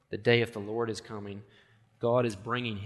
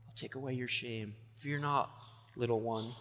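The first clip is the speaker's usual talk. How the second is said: God speaking tenderly; 7 dB quieter than usual. Retold or imitated. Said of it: "they hear God say to them".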